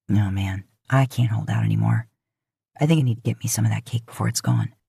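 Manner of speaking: eager for cake, jokingly giving in; playful Dean. A narrator's reading. Dean at a party, playfully caving for cake.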